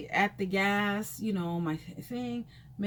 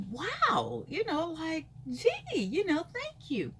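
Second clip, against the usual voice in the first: much higher, gushing, with a squeaky "Gee"; mock gushing thanks; 10 semitones higher, slower than usual. Acting out thanking the stranger, much higher and gushing. Her acted thank-you at the pump.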